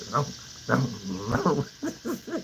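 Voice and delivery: fading engine vroom; motorcycle revving. Retold or imitated. Temper revving after cussing, fading motorcycle vroom. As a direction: let the motor die down. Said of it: "like a motorcycle".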